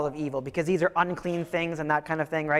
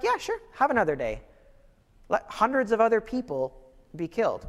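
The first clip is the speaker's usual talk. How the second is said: totally cool king; 3 semitones higher than usual. Retold or imitated. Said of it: "the king is totally cool with it".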